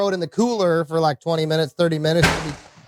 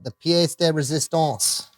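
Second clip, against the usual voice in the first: "pièce de résistance" said with a broad Iowa accent, fully Americanised; terrible Iowa accent. Shown as a demonstration. Shooter introducing the grand finale, jokey Iowa-accent French. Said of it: "in my terrible accent".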